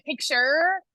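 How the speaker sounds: American "picture" with a sounded final r; American pronunciation, r at the end; American accent. Shown as a demonstration. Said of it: "That's more American".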